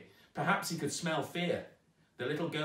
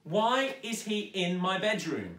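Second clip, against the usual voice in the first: higher, insistent demand; demanding girl; 7 semitones higher, 4 dB louder than usual. A narrator's reading. Zoe demanding answers from her stepmother, higher and insistent. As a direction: press her stepmother hard. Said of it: "she demanded".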